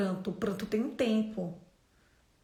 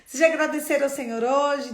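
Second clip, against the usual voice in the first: loud, fast, higher rallying question; loud fast cheer; 4 semitones higher, 9 dB louder, faster than usual. Retold or imitated. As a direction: rouse the whole gym. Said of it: "Desse jeito". (pergunta animada, alta e rápida)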